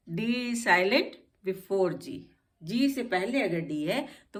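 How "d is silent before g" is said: very slow, deliberate rule; slow rule recital. Shown as a demonstration. Teacher repeating the rule slowly so students remember. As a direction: drill the rule slowly into memory. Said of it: "इस बात को भी नहीं भूलेंगे ना".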